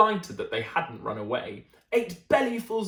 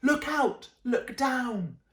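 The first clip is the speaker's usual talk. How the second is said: warning yell; 6 semitones higher, slower than usual. Acted. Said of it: "who yelled".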